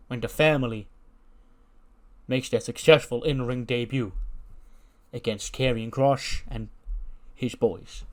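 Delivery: hint of a family don making a toast; lightly voiced mob boss. Voices Tony toasting his family.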